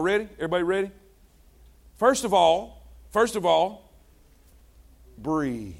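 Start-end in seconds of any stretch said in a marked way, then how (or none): 5.2-5.7 soft breathe cue. Shown as a demonstration. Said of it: "Let's take a deep breath".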